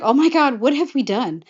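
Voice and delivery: high, loud mock dismay; mock panic. Rapunzel to Flynn after whacking the officer, mock panic. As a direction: imitate an alarmed oh-no moment.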